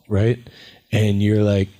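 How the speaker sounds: ordinary delivery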